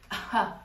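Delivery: short imitated huff; dismissive scoff. Guard looks friend up and down, imitated dismissive scoff. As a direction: imitate a brief, dismissive puff. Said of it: "like, did that and".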